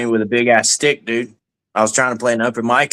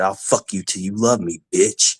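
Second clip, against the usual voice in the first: lower, lisping Tyson-style threat; Mike Tyson impression; 4 semitones lower than usual. To a guy in his face, a lightly voiced Tyson threat. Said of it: "I gave him the Mike Tyson drill".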